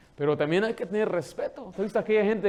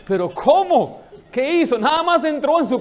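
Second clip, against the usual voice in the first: louder, higher outraged protest; indignant disbelief; 8 semitones higher, 8 dB louder than usual. Acted. Onlooker protesting the queen's sentence, shocked.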